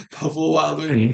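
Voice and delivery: talking through a mouthful of food; mouth full. Real, not acted. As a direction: say it around a bite of food. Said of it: "I have food on my mind".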